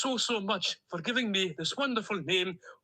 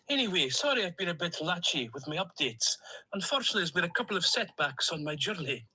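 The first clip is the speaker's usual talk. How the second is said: put-on a duck character with a lightly held Stornoway accent; cheerful Stornoway lilt, a duck on a voice message. Duck on a voice note to his owner, in a Stornoway accent. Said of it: "in my Stornoway accent".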